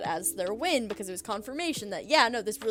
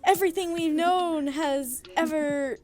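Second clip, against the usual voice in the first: raised, higher voice easing down as it goes; mock yelling; 4 semitones higher, 4 dB louder than usual. Rival fans both claim they won the argument, mock triumphant yell. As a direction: imitate fans crowing, starting loud. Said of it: "both yelling".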